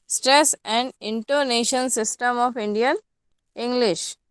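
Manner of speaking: slow, carefully spaced heading read out; slow dictation. Acted. Teacher dictating the point heading to students slowly.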